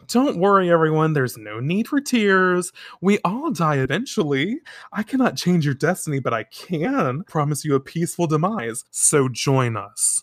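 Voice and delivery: a hint of a creepy cult recruiter; sinister fortune teller. Fortune teller recruiting the crowd into the Black Moon, eerily. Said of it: "the girl at the booth is like".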